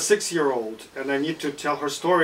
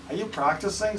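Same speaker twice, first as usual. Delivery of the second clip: pirate voice; 5 semitones higher than usual. Acted. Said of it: "says the pirate from the bushes".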